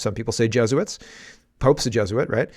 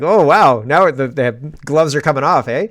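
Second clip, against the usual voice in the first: mock amazement; 3 semitones higher, 6 dB louder than usual. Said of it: "I thought, like".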